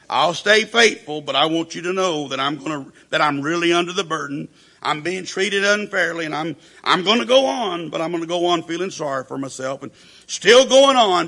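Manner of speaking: mock self-pity of the long-suffering believer; self-pitying resignation. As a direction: sigh it out so everyone hears the burden. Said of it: "respond with resignation".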